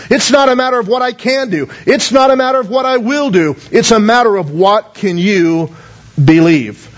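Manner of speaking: Jesus turning the question back on the father; emphatic paraphrase. Shown as a demonstration. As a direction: punch the word "not". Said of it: "He said, in essence".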